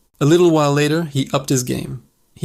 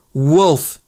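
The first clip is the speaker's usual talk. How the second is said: terrified scream; 3 dB louder than usual. Acted. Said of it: "he screamed, his voice cracking with genuine terror".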